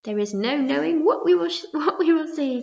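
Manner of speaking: loud, giggling promise; laughing cry. A narrator's reading. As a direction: laugh through the line. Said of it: "cried the centipede".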